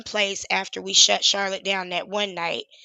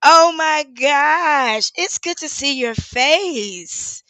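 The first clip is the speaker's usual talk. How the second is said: louder, higher, slow, laughing and near tears; real tears breaking through the joy; 4 semitones higher, 7 dB louder, much slower than usual. Real, not acted. Seeing an old protest friend's face, laughing through tears. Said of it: "you got me in here about to cry".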